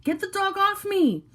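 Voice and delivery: very high, slow, loud scream; panicked scream. A narrator's reading. Suspect screaming while the dog bites, panicked scream. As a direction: shriek it in pain. Man being bitten screams.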